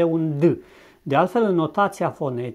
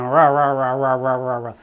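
a light mock English ra ra with a rolled-back R; 2 semitones lower, 4 dB louder than usual. Teacher joking about imitating Englishmen, mock English accent. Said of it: "imitațiile ... imităm în glumă un englez".

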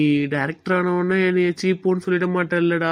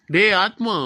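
a firmer call with டேய் stressed and pushed out louder; 4 dB louder, slower than usual. Acted. Friend calls Atma a second time when he doesn't respond, louder call. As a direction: call him again to get his attention.

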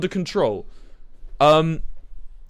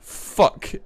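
whispered curse. Acted. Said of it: "as they would say in my mother tongue".

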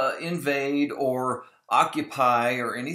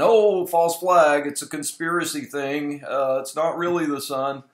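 mock conspiracy theorist; 6 dB louder than usual. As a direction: ham up a theorist who thinks even sunrise is staged. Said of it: "those conspiracy theorists".

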